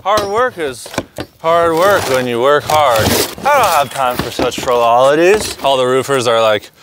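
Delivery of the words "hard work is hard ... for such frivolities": working man voice. Pretend. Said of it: "I'm a working man".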